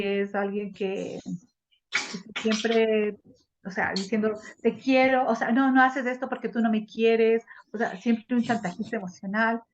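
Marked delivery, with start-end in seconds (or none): 4.6-5.3 louder, pleading voice; a hammed-up needy partner; mock clingy lover. Voicing a blackmailing possessive person. 5.5-7.4 louder, hurt accusing tone; a lightly acted wounded complaint; mock reproach. Voicing the emotional blackmailer.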